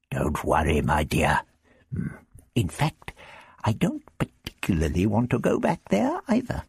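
a hint of the Doctor comforting his companion; the Doctor, reassuring. The Doctor comforts glum Vicky about going back, gently reassuring.

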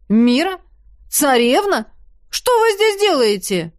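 loud, rising startled shout. A narrator's reading. Елисей shocked to see the princess, startled shout. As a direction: shout in shock at seeing them. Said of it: "закричал Елисей".

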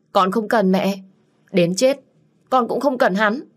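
high, loud refusal; defiant outburst. Acted. Daughter refusing her mother's plan, defiant outburst. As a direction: push the idea away hard.

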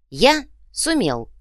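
slow, proud boast; proudly. A narrator's reading. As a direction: say it with pride. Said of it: "гордо ответил Иголка".

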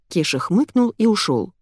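usual speaking voice

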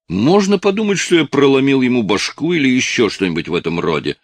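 sarcastic protest. Acted. Haviland sarcastically defends himself.

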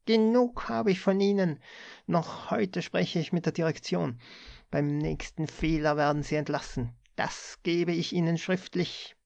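the boss threatens the clerk with the sack; threatening tirade. A narrator's reading.

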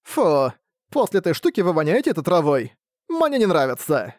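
fussy, whiny complaint; grumbling vampire. Acted. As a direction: complain like a spoiled pet. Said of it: "недовольно брюзжащему Рокарду". (недовольное брюзжание вампира)

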